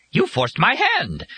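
very high, slow, drawn-out accusation; frantic fury. A narrator's reading. Bird blaming Joe for forcing it, furious. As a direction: stretch it out in a high angry cry.

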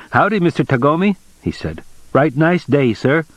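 hammed-up friendly howdy; folksy greeting. A narrator's reading. Young salesman greeting his boss, eager and folksy.

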